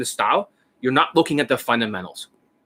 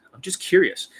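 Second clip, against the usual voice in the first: higher-pitched, interested softener; caring curiosity; 5 semitones higher than usual. Shown as a demonstration. Coach demonstrating how to ask a nurse, with caring curiosity. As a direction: say it like you truly care. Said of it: "you have to look like you care".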